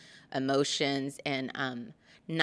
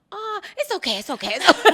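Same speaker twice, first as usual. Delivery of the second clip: high, chuckling dad soothing; laughing reassurance; 9 dB louder, faster than usual. Retold or imitated. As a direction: soothe her through a laugh. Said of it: "he goes".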